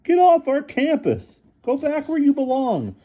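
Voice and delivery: high loud coach voice; angry order. A narrator's reading. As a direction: drive her off campus. Coach ordering her away.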